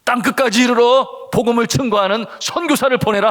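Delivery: loud, high proclaimed command; God's command. Retold or imitated. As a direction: proclaim it like a commission from above. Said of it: "하나님의 명령을 받습니다".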